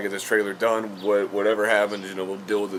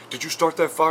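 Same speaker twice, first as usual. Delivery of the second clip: imitated accusation; 7 semitones higher, 4 dB louder than usual. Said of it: "with that one last look".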